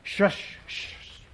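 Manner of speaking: whispered shush. A narrator's reading. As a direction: hiss a soft shush to the room. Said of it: "several people said".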